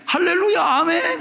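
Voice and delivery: 높고 큰 소리로 할렐루야 외치듯; 박수 치는 교인들 흉내 내며 흥겹게. Retold or imitated. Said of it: "일부 예배". (교인들 흉내로 들뜬 환호)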